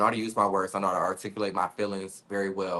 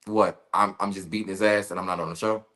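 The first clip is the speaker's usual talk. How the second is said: incredulous. Retold or imitated. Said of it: "So it's like".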